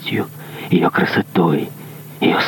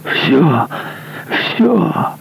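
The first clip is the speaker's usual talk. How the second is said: eager cry, pitched much higher; exclaimed; 11 semitones higher than usual. Acted. Executioner eagerly agreeing to tell all, higher cry. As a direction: blurt it out, desperate to confess. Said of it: "воскликнул палач".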